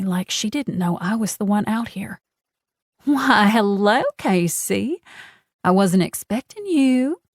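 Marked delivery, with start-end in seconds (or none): 3.0-7.2 higher, sugary fake-sweet drawl; honey-coated coo. A narrator's reading. Genevieve feigning surprise at Casey, sweetly cooing. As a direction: coo it like syrup hiding a knife. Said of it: "she coos in a honey-coated drawl".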